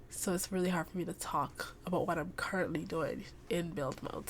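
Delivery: drowsy, fading speech; half asleep, words trailing away; nodding off. Real, not acted. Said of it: "also I'm very tired".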